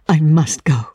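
whispered, urgent; a whispered goodbye in a rush; hushed. Acted. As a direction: breathe it out as she turns to leave. Ellen leaving in haste.

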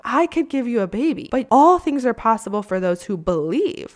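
a hint of God insisting he can; God speaking. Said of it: "and he's like".

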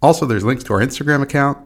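upbeat promo voice; ad read. Acted. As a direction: sell the app brightly. Sponsor ad read before show.

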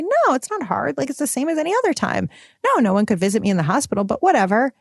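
high and fast, waving it away; breezy dismissive brush-off. Retold or imitated. New mom brushing off friends' questions, breezy and dismissive. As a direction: pretend it is no big deal. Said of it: "And I used to say".

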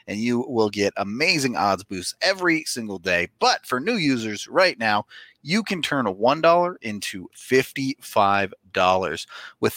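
upbeat sponsor read. Acted. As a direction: pitch the sportsbook app. Reads DraftKings ad.

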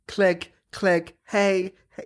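chirpy clicking noises with a hey; mock chair clicking. Friend voicing her wheelchair sneaking up, playful clicks. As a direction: imitate the power chair's click and call. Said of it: "you hear my chair going".

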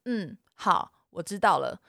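low-key, unemotional acknowledgement; robotic compliance. Retold or imitated. Sister showing how to answer an angry partner, robotic compliance. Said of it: "你姐好像机器人哦".

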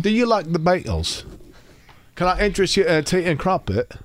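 high, swooping mock-Liverpool voice; put-on Liverpudlian lilt; Liverpool accent. Shown as a demonstration. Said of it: "which sounds a lot like my Liverpool".

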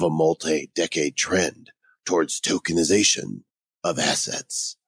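lightly voiced movie-trailer announcer reading the quote; dramatic trailer voice. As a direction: read it as a hint of an epic trailer. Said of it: "sounds way more dramatic and compelling to say it like this".

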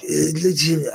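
a hint of a Georgian accent, lightly done; just a touch of Merab's Georgian accent. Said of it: "I can't do a Merab accent".

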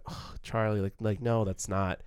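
understated grief for the brother; lamenting, subtle. Shown as a demonstration. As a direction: mourn it quietly, not pushing. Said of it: "just gonna be lamenting".

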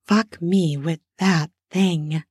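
slow, teasing and naughty. Acted. Woman urging her lover, slow and naughty. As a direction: tease him slowly. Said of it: "she said in a naughty voice".

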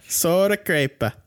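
hammed-up Italian accent, drawn out slow; mock Italian accent. Co-host saying the prospect's name in a mock Italian accent. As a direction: roll the name like a fake Italian. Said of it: "that's my awesome Italian accent".

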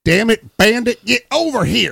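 loud, high put-on holler; hammed-up exasperated owner's shout; calling the dog. Voicing owner calling his dog.

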